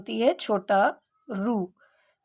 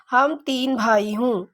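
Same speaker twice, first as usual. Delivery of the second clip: wrong sentence read slowly. Shown as a demonstration. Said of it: "बोलने से ही पता चल रहा है".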